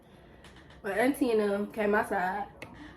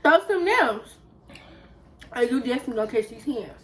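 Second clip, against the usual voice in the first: 1 challenging. Retold or imitated. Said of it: "And I'm like".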